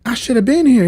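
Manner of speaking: high, loud mock lament; distressed Rogue. Rogue to wounded Remy, high distressed cry. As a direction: cry it out with put-on regret.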